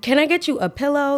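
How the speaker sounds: high-pitched incredulous mock offer. Server to a customer dozing off, incredulous mock offer. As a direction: lift the pitch as if exasperated.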